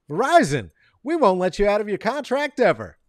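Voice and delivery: loud, high, gleeful-pitchman slogan; mock ad slogan. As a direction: belt it out like a company tagline.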